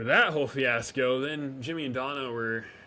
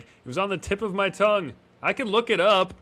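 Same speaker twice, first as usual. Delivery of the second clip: high, loud flustered Connie; mock fluster; 9 semitones higher, 5 dB louder than usual. Imitating Connie eager to find the answer, high and flustered. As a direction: squeal it out like she almost has it.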